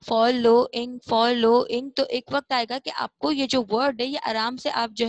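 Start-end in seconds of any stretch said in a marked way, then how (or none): 0.1-1.9 फॉलोइंग loud, in linked syllables, said repeatedly; repeated drill. Shown as a demonstration. Teacher showing pupils practice by repeating, loud drill. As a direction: drill फॉलोइंग firmly with short syllable breaks. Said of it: "बार-बार पढ़ते रहेंगे".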